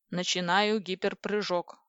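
slow, measured notice; computer announcement. Acted. Kompi announcing a hyperjump to crew, measured. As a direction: announce it deliberately, evenly paced.

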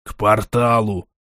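noisy exhale. A narrator's reading. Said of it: "шумно выдохнул Корт".

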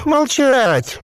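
high, slow gurgling creature voice; a possessed corpse bubbling out its words. A narrator's reading. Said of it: "Пистолет задвигался в подкреплении приказа".

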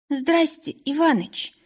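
high, sheepish woman's greeting; embarrassed. A narrator's reading. Polina greets the owner, embarrassed and high. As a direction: caught out, greet him with a bashful voice. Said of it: "смущённо отозвалась Полина".

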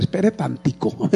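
put-on "Espere tantico" drawn out slowly with a rising end, Santander accent. Pastor imitating the Santander way for the congregation, slow and rising. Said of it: "Como dicen aquí en Santander".

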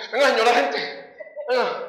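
urgent comic summons; retold calling out. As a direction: flag down the police, half acted. Retold hailing of police patrol.

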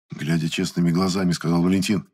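ordinary delivery, nothing marked

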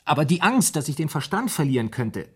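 anxious outburst about losing his mind; rising panic. Acted. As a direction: let the dread break through as you admit it. Confessing fear of madness.

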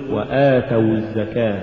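light ta in وآتوا; correct stress. Shown as a demonstration. Teacher repeats correct recitation, long aa of وآتوا stressed. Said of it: "قل".

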